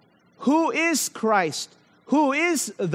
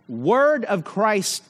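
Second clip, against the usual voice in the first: "word of Christ" spoken slowly, "word" leaned on; stress on word of Christ; slower than usual. Shown as a demonstration. Preacher pointing the church to the phrase, slow stress. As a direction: linger over "word of Christ". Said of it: "I emphasized here".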